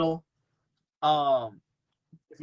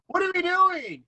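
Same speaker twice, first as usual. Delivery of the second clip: imitating Eddie; 3 dB louder, slower than usual. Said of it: "and he's like".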